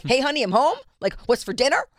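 high, loud mock sitcom husband greeting. Mocking ex-husband acting like nothing changed, hammed-up. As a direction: lampoon his cheerful coming-home call. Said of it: "like he's just home from work".

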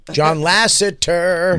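John Lasseter slowly stretched; drawn-out name. Real, not acted.

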